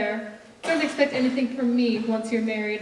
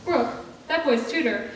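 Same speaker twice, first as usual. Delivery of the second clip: put-on old tycoon. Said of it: "the grumpy rich aunt".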